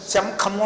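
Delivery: శంఖము said with an m, as sham-khamu; wrong nasal demo. Shown as a demonstration. Teacher asking if student says it so, mispronounced with m. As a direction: put a lip-closed m before the kh in శంఖము. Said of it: "మాయ ఏం పలకట్లేదు".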